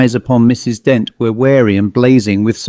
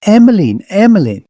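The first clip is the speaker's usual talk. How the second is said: high, loud frantic calling of a name; hysterical call; 8 semitones higher, 3 dB louder than usual. A narrator's reading. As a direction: cry out the name in panic. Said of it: "called hysterically".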